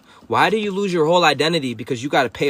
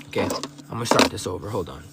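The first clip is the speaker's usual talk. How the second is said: quiet aside; 8 semitones lower, 6 dB quieter than usual. Real, not acted. Aside, restarting the stream.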